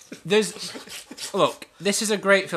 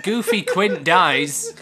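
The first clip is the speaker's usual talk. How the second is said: laughing; 3 semitones higher, 6 dB louder, much slower than usual. Real, not acted.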